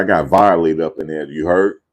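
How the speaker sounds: usual speaking voice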